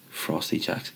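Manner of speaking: whispered name, fondly remembered. Real, not acted. Vlogger recalling a youth drink, whispered. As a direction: breathe it out as a secret.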